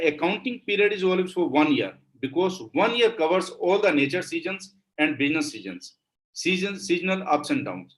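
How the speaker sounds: slow, deliberate dictation of a definition. Shown as a demonstration. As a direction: read it out word by word for notes.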